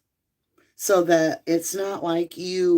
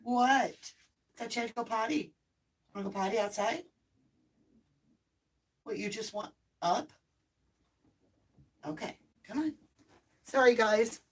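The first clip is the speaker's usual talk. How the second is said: hushed and a little higher, coaxing the dog; soft pet talk; 4 semitones higher, 7 dB quieter, faster than usual. Real, not acted. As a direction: murmur sweetly to a puppy who wants to be picked up. Softly talking to her dog.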